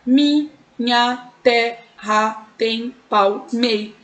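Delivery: very slow "Minha terra tem palmei-", syllable by syllable; counting syllables. Shown as a demonstration. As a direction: separate each syllable with a pause: mi, nha, te, rra, tem, pal, mei. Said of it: "vamos contar".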